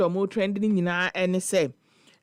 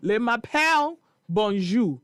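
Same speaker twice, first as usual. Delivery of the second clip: mock candidate; 3 semitones higher than usual. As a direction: play up the fumbling student saying "Le m'appelle". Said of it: "Teacher, they be".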